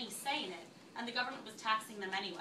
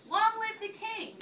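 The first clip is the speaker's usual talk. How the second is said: higher, louder festive cheer; cheering toast; 9 semitones higher, 4 dB louder than usual. A narrator's reading. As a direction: raise a glass and cheer for the king. Colonists' toast in read text.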